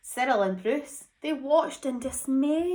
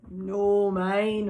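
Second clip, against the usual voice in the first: holler; 5 semitones lower than usual. Acted. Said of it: "hollered Bruce".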